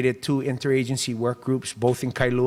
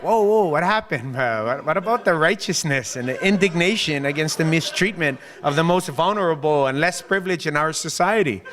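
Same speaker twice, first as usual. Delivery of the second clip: mock surprise; 5 semitones higher than usual. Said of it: "you're like".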